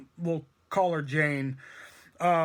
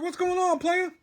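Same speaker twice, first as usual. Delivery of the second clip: Rapper-style greeting; 11 semitones higher than usual. Retold or imitated. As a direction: push the gangsta greeting higher. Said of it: "I talk like I'm fucking a famous rapper".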